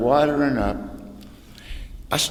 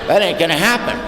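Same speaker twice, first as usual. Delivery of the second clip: defiant shout; 5 semitones higher, 4 dB louder than usual. Real, not acted. Defiant refusal to the room.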